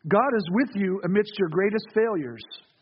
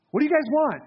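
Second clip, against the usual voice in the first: pointed, slightly raised question over the shoulder; a bit harsh; 4 semitones higher than usual. Retold or imitated. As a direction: challenge them lightly, a touch blunt. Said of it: "I don't know if he said that in a harsh manner".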